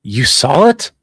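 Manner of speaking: "You saw it?" loud, pitch climbing steeply through "it"; voice going up. Shown as a demonstration. Voice actor trying a dubbed line, "saw it" rising too much at the end. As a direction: punch "saw", then swing "it" sharply upward. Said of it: "my voice goes up too much".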